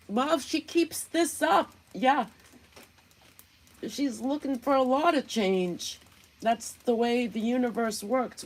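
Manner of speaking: lightly done Southern woman impression; Southern accent parody. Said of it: "Now I'm gonna start talking like Analyzer".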